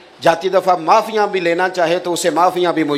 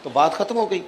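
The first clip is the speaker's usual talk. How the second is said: usual speaking voice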